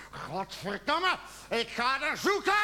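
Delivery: building from tense mutter to full-voiced outburst; slow, exploding curse; composure cracking. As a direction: lose your patience mid-sentence and burst out. Self-calm breaks into outburst.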